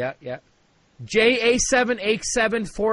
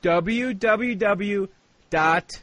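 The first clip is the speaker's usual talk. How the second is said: W W W drawn out letter by letter; slow spelling; much slower than usual. Acted. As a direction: drag each W out slowly. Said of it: "you writing this down".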